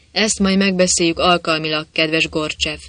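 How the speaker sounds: a lightly voiced threat, called out; mock-friendly warning; corporal's understated menacing call; menacing encouragement. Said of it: "kiáltotta vészes biztatással a káplár".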